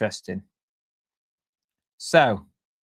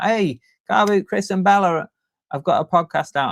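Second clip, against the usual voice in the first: higher, bright-paced alert announcement; mock notification; 5 semitones higher, 3 dB louder than usual. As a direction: announce it like a phone notification popping up. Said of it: "It'll just appear like a notification".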